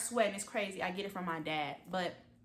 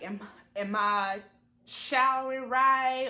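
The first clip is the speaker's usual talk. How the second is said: anxious; 4 semitones higher, 8 dB louder, slower than usual. Retold or imitated. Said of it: "you keep asking yourself".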